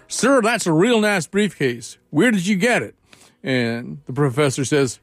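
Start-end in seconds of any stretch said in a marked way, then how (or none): 0.1-2.9 put-on slow drawled Georgia accent, pitched up. Georgia guy to professor, slow Southern drawl. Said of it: "the Georgia, uh, guy says to the professor".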